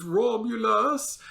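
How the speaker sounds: high, slow drawn-out cry; mock scream. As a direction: stretch it into a melodramatic wail, without real volume. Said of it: "drops to his knees and screams".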